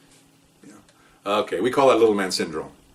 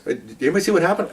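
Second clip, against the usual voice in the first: raised, higher-pitched call to bystanders; 6 semitones higher, faster than usual. Retold or imitated. Supervisor seeks witnesses on sidewalk, calling out. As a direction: call out to a street crowd.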